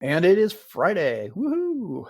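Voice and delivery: high cheerful whoop; excited. Real, not acted. Celebrating Friday news day.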